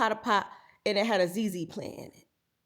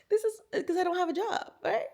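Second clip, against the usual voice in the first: much higher, half laughing half crying; 8 semitones higher than usual. Real, not acted. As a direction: laugh through a fake sob. Laughing-crying over no insurance.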